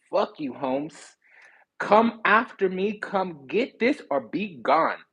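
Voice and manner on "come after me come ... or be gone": slow, high, challenging dare. Acted. Challenge to a lover.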